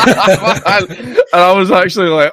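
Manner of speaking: words squeezed out through a laugh; slow, laughing as he talks. Real, not acted. Laughing while telling of the broke Big Issue seller.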